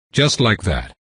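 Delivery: "Just like that." said level and falling, stress on "just"; flat confirmation. Acted. Vampire coolly confirming to the man, flat falling answer. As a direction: close it down, matter-of-fact.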